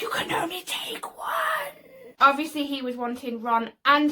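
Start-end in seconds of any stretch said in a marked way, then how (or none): 0.0-1.9 high-pitched, drawn-out mock merperson voice; imitating merpeople. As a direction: stretch it out high and slow like a merperson. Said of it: "when the beer people come over and like".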